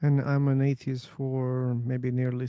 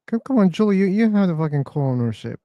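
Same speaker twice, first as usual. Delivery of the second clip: loud excited call, pitch jumping up; calling out loudly; 5 semitones higher, 6 dB louder than usual. Real, not acted. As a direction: shout across the room to Julie. Calling out to Julie.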